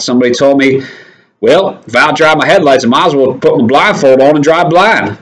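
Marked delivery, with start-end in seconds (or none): 1.4-5.2 put-on a light American Southern accent, slightly raised. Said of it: "My best Southern accent".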